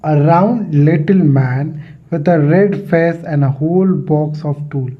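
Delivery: slow, spaced-out English reading; textbook read-aloud. Acted. Teacher reading the lesson paragraph to students, slow read-aloud. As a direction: read it out word by word, slowly.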